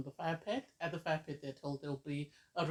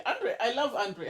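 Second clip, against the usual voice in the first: slow, laughing gush over a favourite; laughing fondly; 5 semitones higher, 3 dB louder than usual. Real, not acted. Vlogger gushing about her favourite islander, laughing. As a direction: chuckle through it as a fan.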